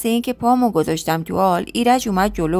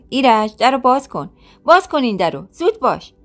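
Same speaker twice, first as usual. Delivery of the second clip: calling through door; 4 semitones higher, 3 dB louder than usual. Acted. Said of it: "میکوبیدن به در".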